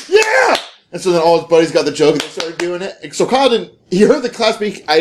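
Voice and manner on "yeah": high, whooping fake cheer; mock jock cheer. Jock heckling the nerd's speech with a high whoop. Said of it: "one of the jock guys like".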